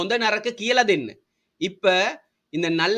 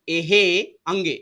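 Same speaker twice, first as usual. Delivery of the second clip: எஹே said slowly, each syllable spelled out; teacher slowing down so students repeat; slow drill; slower than usual. Shown as a demonstration.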